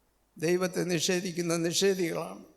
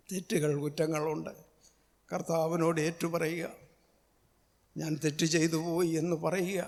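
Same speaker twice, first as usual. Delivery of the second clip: hushed, lower confessional tone; soft and low; 3 semitones lower, 6 dB quieter than usual. Acted. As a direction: draw the listener in quietly. (കുറ്റം ഏറ്റുപറയാൻ താഴ്ന്ന, മൃദുവായ ശബ്ദം)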